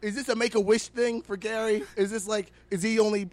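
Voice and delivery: loud, high, scornful call-out; mocking rant. Real, not acted. Podcaster heckling the hotel co-owner, scornful and loud.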